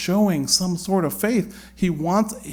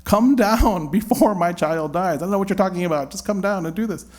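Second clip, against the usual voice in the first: impatient demand; 5 semitones higher than usual. Acted. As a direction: brush off his words and insist. Official's impatient demand voiced.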